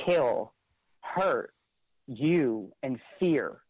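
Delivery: words dropped singly, with pauses between; isolated words, each standing alone; one word at a time. Retold or imitated. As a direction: relay a device's words one by one. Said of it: "one after the other".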